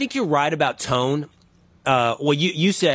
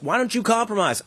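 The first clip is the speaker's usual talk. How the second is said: mock yell; 8 semitones higher than usual. Host voicing everybody yelling at the one standing still, mock yell. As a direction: imitate a crowd's complaint in a raised pitch. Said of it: "and everybody yells".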